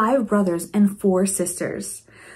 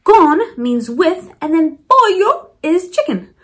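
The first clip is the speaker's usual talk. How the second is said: slow, higher and louder teacher voice; slow clear teaching; 7 semitones higher, 5 dB louder than usual. Shown as a demonstration. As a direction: spell it out slowly for kids. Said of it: "arroz in Spanish is rice".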